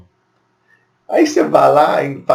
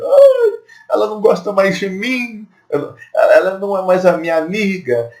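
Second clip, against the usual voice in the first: mock offended friend; 7 semitones higher than usual. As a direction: whine like a hurt friend. (amiga ofendida, voz aguda e chorosa)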